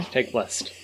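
breathy whispered joke; whispering. Acted. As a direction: whisper it as a wry aside. Jokey aside to the group.

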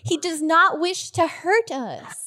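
slow, soothing reassurance; calm the party down gently; reassuring Cordy. Acted. Cordy tells her friends the bee means no harm, slowly soothing.

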